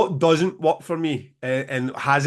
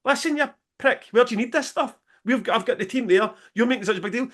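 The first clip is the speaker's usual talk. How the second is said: higher-pitched mock rant at the tour manager; imagined angry scream; 6 semitones higher than usual. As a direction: pitch it up and vent, half-acted fury. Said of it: "scream back at him".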